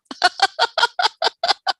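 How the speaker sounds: high rising giggle; laughing. Real, not acted. Still amused by the Trump impression, high giggle. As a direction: keeps laughing, delighted.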